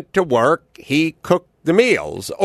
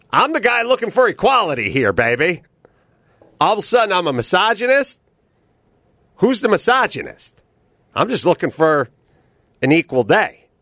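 mock indignant; 6 semitones higher than usual.

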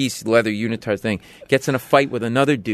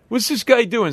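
put-on drunk asking; 11 semitones higher than usual. Drunk man asking the crowd about the comic. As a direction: demand it like a drunk. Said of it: "He goes".

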